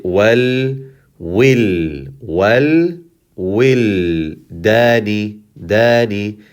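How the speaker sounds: drawn-out wal, will, dani with held l and long a; syllable demonstration. Shown as a demonstration. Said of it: "here we say".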